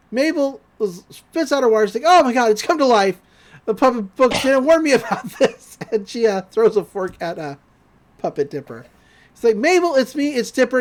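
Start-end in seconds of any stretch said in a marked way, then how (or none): 2.1-5.8 higher, louder startled retelling; playful imitation of shock; mock alarm. Puppet comes to life, retold. 9.6-10.8 higher-pitched urgent appeal; mock urgency; imitated urgent plea. Dipper pleads with Mabel, retold.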